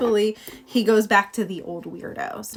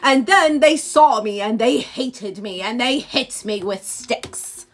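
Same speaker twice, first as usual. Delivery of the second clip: lightly voiced polite monster turning menacing; eloquent monster; 5 dB louder than usual. Monster calmly threatens its creator, slowing into menace. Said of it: "very eloquently is like".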